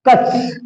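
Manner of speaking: कस as a half K running into S. Shown as a demonstration. Teacher shows students the X sound, कस as half-K and S. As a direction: clip कस to a K plus hissed S. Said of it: "आधा क अस".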